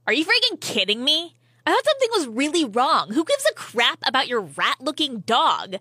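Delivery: indignant, emphatic telling-off; acted irritated outburst; exasperated scolding. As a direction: play a friend fed up with the drama. Acted friend scolds over false alarm.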